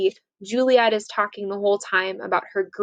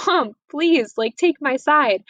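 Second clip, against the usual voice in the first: high, lightly voiced plea; teen begging mom for help; pleading daughter; 5 semitones higher than usual. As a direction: daughter pleading with her mother. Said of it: "turns to her mother and says".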